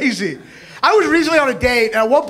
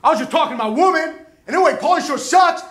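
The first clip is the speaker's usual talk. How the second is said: mock angry redneck, pitched up; a touch of redneck yelling; angry heckler; 4 semitones higher than usual. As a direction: imitate a man griping at club staff. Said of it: "he's yelling with his staff. He's all angry".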